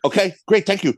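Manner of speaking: imitating his intimidated younger self caving in; mock meek giving in. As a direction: squeak out a hasty yes. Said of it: "So I was like".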